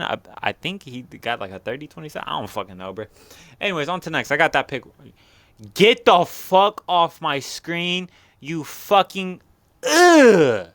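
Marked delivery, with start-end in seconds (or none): 5.7-10.7 annoyed yelling at laptop. Real, not acted. Old laptop pop-up blocking screen.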